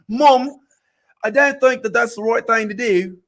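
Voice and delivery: put-on failed British accent sliding into Australian; half-hearted British accent drifting Australian; Australian-tinged accent. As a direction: try English but land in Australia. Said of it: "you just keep taking it to Australia".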